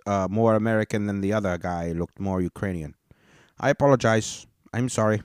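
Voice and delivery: half-hearted imitation, apologizing; a hint of the embarrassed panelist; mocking the panelist. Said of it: "And I was".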